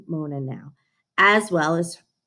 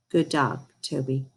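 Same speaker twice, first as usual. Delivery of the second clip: gentle; 6 semitones lower, 5 dB quieter than usual. A narrator's reading. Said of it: "she said gently".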